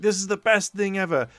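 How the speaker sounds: high, loud, overeager gush; a mock-thrilled outburst over the deal; gushing excitement. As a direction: oversell it like a starstruck fan. Momotari gushing at business pitch.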